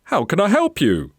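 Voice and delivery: high, loud call over noise; shouted offer. Acted. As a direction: call out to customers over the racket. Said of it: "shouted Mister Gonzalez to them".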